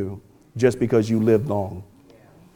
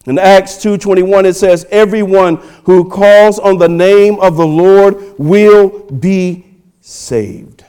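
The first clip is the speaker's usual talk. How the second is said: scripture proclaimed high and strong; forceful preaching; 6 semitones higher, 7 dB louder than usual. Acted. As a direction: proclaim the verse to the congregation.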